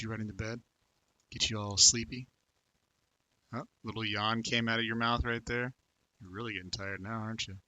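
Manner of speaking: soft, hushed, lulling a viewer to sleep; sleepy bedtime voice. Acted. Talking to Tank as if tucking him into bed, soft and sleepy. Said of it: "'Cause of my voice".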